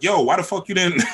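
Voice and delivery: put-on high, loud yelling girlfriend; mock screaming woman. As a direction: bark it at him like an angry partner. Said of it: "barking and screaming".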